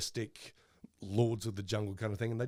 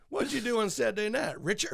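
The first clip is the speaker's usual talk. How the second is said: mock posh voice; 10 semitones higher, 4 dB louder than usual. Mocking a posh rich friend.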